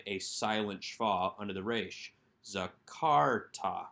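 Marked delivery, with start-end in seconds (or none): 2.4-3.9 slow Zakarta, accent on kar; stress on kar. Shown as a demonstration. Teacher repeats the answer slowly, stressing kar. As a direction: draw out Zakarta, hitting kar. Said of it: "with that accent on the second syllable".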